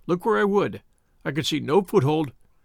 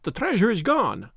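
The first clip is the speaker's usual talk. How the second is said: querulous cry; 3 semitones higher than usual. Acted. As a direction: panicky little man, sharp and complaining. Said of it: "a sharp, querulous cry".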